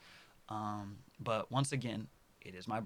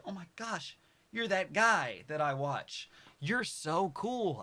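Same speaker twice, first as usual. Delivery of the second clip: fan voice; 6 semitones higher, slower than usual. Pretend. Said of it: "people are like".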